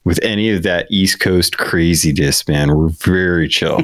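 lightly voiced chill California accent; easygoing California dude accent, slowing at the end. Speaker distances Californians from East Coast craziness, California accent. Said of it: "think about the Californians and be like".

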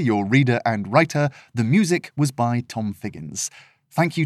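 bright, upbeat podcast greeting; cheerful host. Real, not acted. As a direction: welcome listeners warmly.

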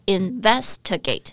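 investigate with stress on VES; stress on second syllable. Shown as a demonstration. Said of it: "重音节在第二个". (重音在investigate的第二个音节)

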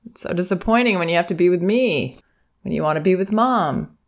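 nod along and sympathise; gently acknowledging a child's disappointment; sympathetic nodding. Shown as a demonstration. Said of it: "just keep nodding your head and go".

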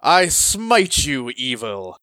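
slow righteous paladin declaration. Shown as a demonstration. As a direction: proclaim it slowly like a holy knight.

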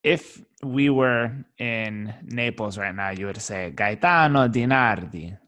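Gaetano Di Nardi said the Italian way, as in Naples; Italian pronunciation. Shown as a demonstration. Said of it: "How do we pronounce it appropriately".

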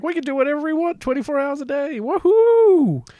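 high, mocking voice of greedy casinos; gleeful casino boss. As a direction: squeal it like a gloating villain.

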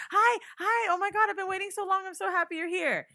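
high, gushing relief; overjoyed greeting. Retold or imitated. To the Apple agent after an hour on hold, high gushing. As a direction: gush like you've been saved. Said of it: "I run to the computer and I'm like".

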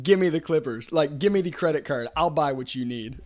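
loud, brash, swaggering order; buddy voicing a pushy alpha at the counter, loud; mock alpha demand. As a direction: boom it out like a macho customer. Friend mocks alpha coffee order.

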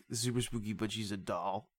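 stoner trailing softly through his pitch; James Wan. Acted. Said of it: "just like a stoner who's like".

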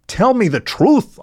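growled demand. A narrator's reading. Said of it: "I growled".

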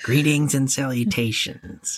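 slow, soft Christian Slater drawl; lightly voiced Christian Slater; Christian Slater impression. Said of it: "with your Christian Slater impression".

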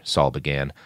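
ordinary delivery

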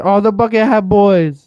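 high, loud mock-Asian accent. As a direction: call out excitedly in a put-on Asian accent. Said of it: "I did an Asian".

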